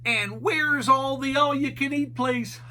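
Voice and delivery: high goofy Shaggy voice. A narrator's reading. Shaggy asking Scooby about a noise, high and goofy. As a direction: ask like a nervous cartoon slacker.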